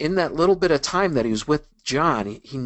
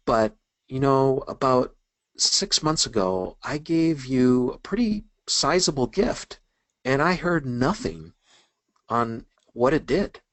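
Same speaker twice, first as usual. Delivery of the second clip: mild sheepish retelling, slow and halting; hesitant, drawn-out mock reluctance; 3 semitones higher than usual. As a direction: imitate someone reluctantly raising an awkward grievance. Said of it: "he kind of sheepishly said".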